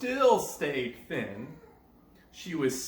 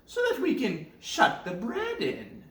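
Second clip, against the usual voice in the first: commanding witch. Acted. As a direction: order her in with menace. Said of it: "said the witch".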